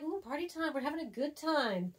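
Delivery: a light mock cheer; party excitement. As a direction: read it like a happy text. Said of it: "I'm like".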